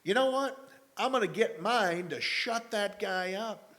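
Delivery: high, punchy resolve; determined thought. Retold or imitated. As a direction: say it like you just decided. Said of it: "thought that popped in my head".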